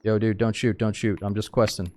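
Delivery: loud, urgent plea not to shoot; panicked surrender shout. Real, not acted. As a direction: beg them to hold fire. Player pleads with armed scav.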